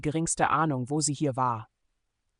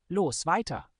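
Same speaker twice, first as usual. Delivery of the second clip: called out; 3 semitones higher than usual. Acted. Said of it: "rief Akron".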